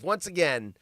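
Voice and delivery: ordinary talk, nothing marked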